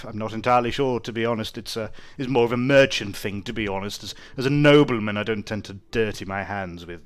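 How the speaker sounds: lightly voiced haughty nobleman; a hint of an aloof aristocrat; pompous nobleman. GM voicing nobleman NPC.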